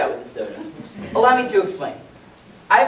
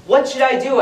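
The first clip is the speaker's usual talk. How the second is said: retold exclamation; 6 semitones higher, 3 dB louder than usual. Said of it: "I exclaimed".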